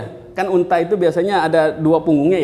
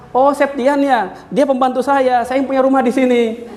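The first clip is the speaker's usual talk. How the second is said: haughty maid; 6 semitones higher than usual. Acted. Maid telling the guest she owns the house, mock-haughty. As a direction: puff yourself up as the maid.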